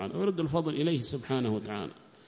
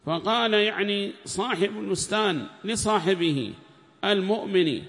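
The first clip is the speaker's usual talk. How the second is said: loud, higher reading of the commentary, at times slow; formal text reading; 7 semitones higher, 6 dB louder, slower than usual. Acted. Reader reads the tafsir aloud in class, loud and formal. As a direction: read the book out to the class in a raised voice.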